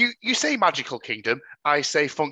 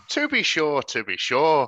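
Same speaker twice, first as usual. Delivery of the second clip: put-on Irish catchphrase with barely any accent; stereotypical Irish phrasing; slower than usual. Mocking the leprechaun actor, a feeble attempt at Irish. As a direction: parody a half-hearted Irish accent. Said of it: "stereotypical Irish phrases without the accent".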